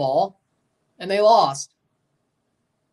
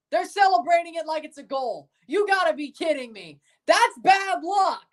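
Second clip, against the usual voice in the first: exasperated disbelief; 9 semitones higher than usual. Real, not acted. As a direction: plead with the team in disbelief. Reacting to celebration of penalty.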